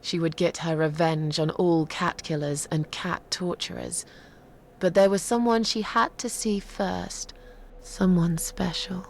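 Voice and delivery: measured, dramatic telling of a dark legend; grim storyteller building to revenge; story narration. Acted. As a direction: draw out the tale phrase by phrase, with weighty pauses.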